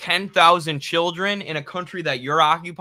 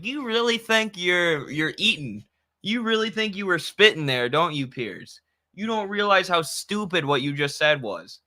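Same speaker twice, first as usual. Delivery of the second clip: pompous British mockery. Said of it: "in that pompous British attitude".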